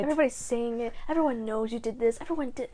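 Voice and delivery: imitated accusing patter; Monk's tone of voice. Host imitates Monk's habitual tone with a head swivel, accusing. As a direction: rattle off the mock accusation. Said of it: "he uses that tone of voice".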